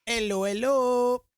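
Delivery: echoey mic like across a room; big hall echo. Real, not acted. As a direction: sound as if in an empty hall. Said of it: "You sound really echoey".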